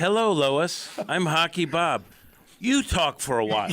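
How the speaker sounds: lightly voiced radio host; mock call-in host greeting; radio host impression. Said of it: "let's do a recreation".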